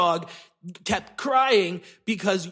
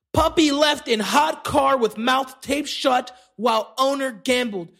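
outraged reread; 2 semitones higher than usual. Real, not acted.

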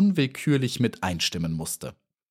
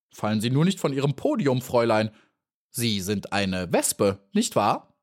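teasing; 2 semitones higher than usual. Acted. Grasshopper teasing Maya.

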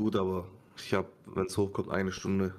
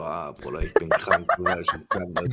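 groggy low croak, just woken up; sleepy croaky voice; 4 semitones lower, 3 dB louder than usual. Acted. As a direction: play it sick and half asleep. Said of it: "extra ein bisschen so, wie Bühne reden".

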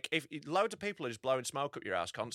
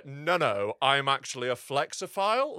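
haughty posh voice; 3 semitones lower, 3 dB louder, slower than usual. Retold or imitated. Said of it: "it's a haughty, posh, pretentious voice".

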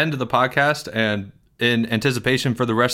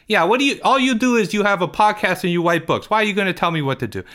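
put-on whiny, higher kid voice with big complaints; Porge; 8 semitones higher than usual. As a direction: play Porge, indignant and put-upon.

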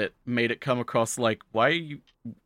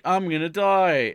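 high, slow, louder wail of doom; hammed-up dying dread; mock despair; 7 semitones higher, 4 dB louder, slower than usual. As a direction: moan it like it's the end. Facing the boulder.

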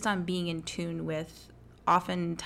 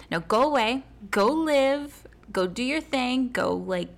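excited; 4 semitones higher, 6 dB louder than usual. Real, not acted. Cheerful send-off to listeners.

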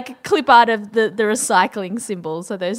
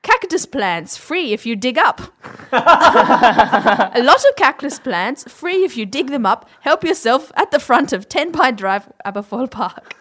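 lightly posh voice, slowed with laughter; snooty voice. Shown as a demonstration. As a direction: read the ad like a snooty rich person. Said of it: "I'll do it in the, the same voice".

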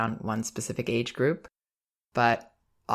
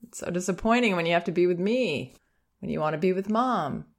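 lightly raised, soothing and a bit quick; gentle empathy; 4 semitones higher than usual. Shown as a demonstration. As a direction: nod along and name the disappointment. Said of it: "just keep nodding your head and go".

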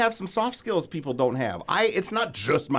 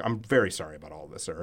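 much lower and softer, a little faster; lower, softer: apologizing meekly to the flight crew; meek apology; 14 semitones lower, 8 dB quieter, faster than usual. Retold or imitated. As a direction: shrink into a sheepish sorry.

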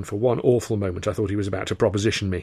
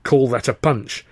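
sneering; 2 semitones higher, 3 dB louder, slower than usual. Retold or imitated. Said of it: "Chaplin sneering".

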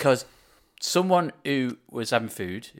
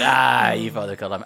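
mock teasing; 6 dB louder than usual. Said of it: "laughing, going".

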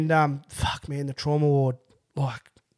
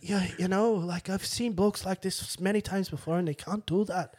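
higher-pitched imitation of a Scottish nurse; Scottish accent; 5 semitones higher than usual. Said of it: "do it in his accent".

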